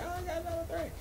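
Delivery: jumps way up high and thin, mock thrilled; mock excited. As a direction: squeak it like a giddy kid. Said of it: "I was like".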